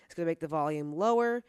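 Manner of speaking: very faint, mic volume turned down. Real, not acted. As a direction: sound as if the gain dropped. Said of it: "so I sound quieter".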